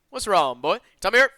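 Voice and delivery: put-on a kidnapper baby-talks the sick hostage; mock gentle captor. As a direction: talk down to the boy like a child. Captor voiced in read story.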